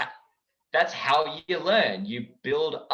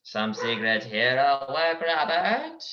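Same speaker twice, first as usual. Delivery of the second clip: Edna Mode; much slower than usual. Acted. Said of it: "I wish I could do a better Edna Mode".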